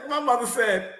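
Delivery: talks through high giggles; can barely get the words out for laughing. Real, not acted. Laughing while retelling mother's words.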